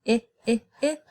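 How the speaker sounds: repeated short "I" vowel; short I sound. Shown as a demonstration. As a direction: model the "I" vowel three times. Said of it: "Do you hear the I sound?".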